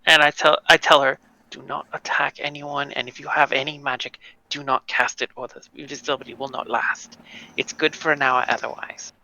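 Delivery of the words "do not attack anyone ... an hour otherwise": hushed instructions. Acted. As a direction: give a quiet, discreet briefing. In character, privately instructs invisible companion.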